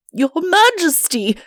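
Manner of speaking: high, loud, frantic pleading; flustered panic. A narrator's reading. Chancellor panics after waking.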